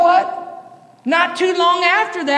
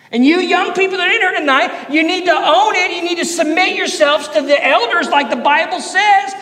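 fired-up preaching; 3 semitones higher than usual. Acted. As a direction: preach it hard to the youth. Preaching at full force.

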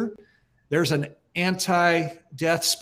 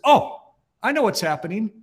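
retold sudden realisation; 4 semitones higher than usual. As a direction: act out someone suddenly catching on. Acts out friend's sudden realisation on phone.

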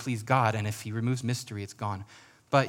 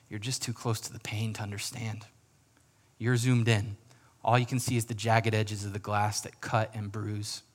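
gentle voice. Acted. God looking down at people in pain, gently reassuring. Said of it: "with a gentle voice".

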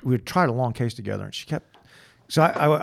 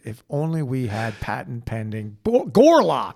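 mock infomercial pitch. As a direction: sell it like a late-night ad.

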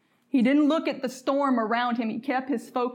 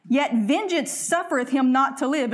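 scripture reading. Acted. Reads scripture aloud.

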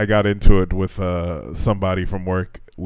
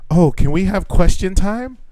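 mocking the teacher; 8 semitones higher, 5 dB louder than usual. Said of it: "the teacher literally says".

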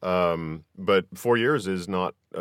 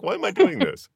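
high, louder laughing complaint; mock exasperation; 12 semitones higher, 5 dB louder than usual. Gamer recalling a rage quit, amused exasperation. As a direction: exclaim it high through amusement.

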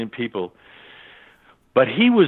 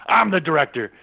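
repeating his claim with a touch of mock fury; mock angry insistence; 5 semitones higher than usual. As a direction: bark it like an angry boss. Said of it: "Excuse my French".

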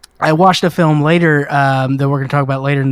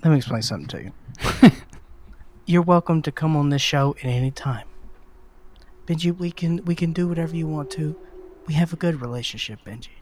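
quiet, measured mock menace; mock threat; 2 semitones lower, 6 dB quieter than usual. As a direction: softly warn him, playing at menace. Mock threat to the clip's Benji.

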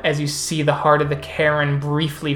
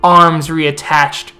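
epic fantasy narrator. Acted. NPC tells a legend at the moot.

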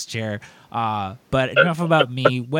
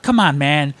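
retold yelling; 4 semitones higher, 4 dB louder than usual. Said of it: "I yelled at poor Melissa".

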